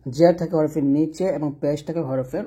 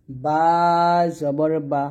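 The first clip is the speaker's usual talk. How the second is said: বা said short and quick; short crisp বা; much slower than usual. Shown as a demonstration. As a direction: say বা quick with no stretch on the vowel. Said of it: "টান দেওয়া যাবে না".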